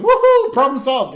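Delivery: high, loud triumphant whoop; Homer. Retold or imitated. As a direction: cheer it out in elated relief. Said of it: "And Homer goes".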